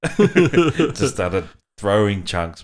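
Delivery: slow, loud words through real laughter; laughing while talking. Real, not acted. Dad telling of his son throwing up, laughing. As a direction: drag it out as the laugh breaks through.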